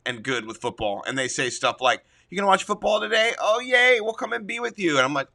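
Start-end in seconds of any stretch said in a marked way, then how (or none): 2.3-5.0 higher, chirpy imitation of the family; mock cheery family. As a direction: lightly play the family's happy welcome. Voicing cheerful family members.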